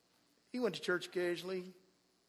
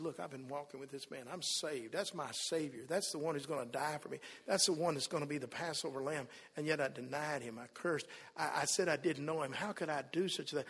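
low, quiet self-reproach; bitter remorse; 4 semitones lower, 3 dB quieter than usual. Retold or imitated. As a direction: confess softly, imitating a broken-hearted penitent. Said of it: "went out and wept bitterly".

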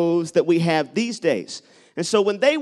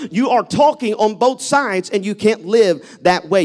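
God's rebuke, preached hard and loud; fiery preaching; 3 dB louder than usual. Acted. Preacher voicing God rebuking Ephraim, fiery. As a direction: lay it on him like a preacher's judgment.

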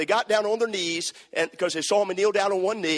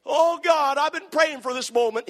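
loud, pleading cry, higher and louder; retold crying prayer; 5 semitones higher, slower than usual. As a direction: cry out to God like a weeping old father. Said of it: "started crying out loud and saying".

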